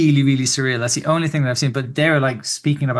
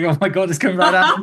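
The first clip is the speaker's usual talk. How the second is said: mock panic; 4 semitones higher than usual. Retelling seeing lights approach.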